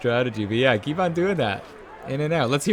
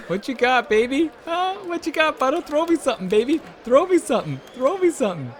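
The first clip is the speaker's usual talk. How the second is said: high, loud egging on of the boxer; hype cheering; 14 semitones higher, 4 dB louder than usual. Real, not acted. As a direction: pump up your fighter like a coach at ringside. Cheering on Butterbean in fight.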